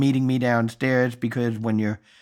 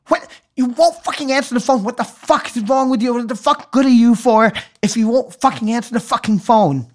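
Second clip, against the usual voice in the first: high, strained screaming rage; furious scream; 10 semitones higher than usual. Retold or imitated. Screaming at a phone that won't answer the call. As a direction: scream at the phone like it betrayed you. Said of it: "I finally screamed out".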